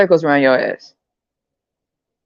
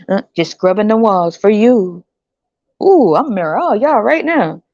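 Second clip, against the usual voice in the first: giddy man. Retold or imitated. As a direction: gush like he won the lottery. Man voiced, thrilled.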